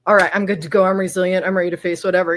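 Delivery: rally yourself, punchy and loud; confident pep talk. Pretend. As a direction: resilient self-assurance. Acted resilient self pep talk.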